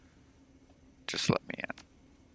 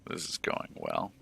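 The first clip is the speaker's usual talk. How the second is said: dry sarcasm; 11 semitones lower, 4 dB quieter than usual. Real, not acted. Dry aside as things go wrong.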